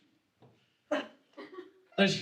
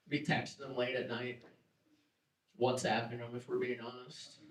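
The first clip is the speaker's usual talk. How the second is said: muttered aside; 6 semitones lower, 9 dB quieter than usual. Acted. Quiet aside after the jealousy bit.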